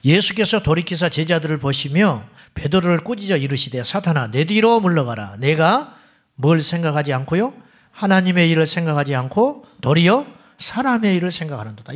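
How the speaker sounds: 회중 앞에서 힘 있게 읽는 성경 말씀. A narrator's reading. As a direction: read the scripture out firmly to a congregation. Reads the Bible verse aloud. (또박또박 힘주어 읽는 성경 낭독)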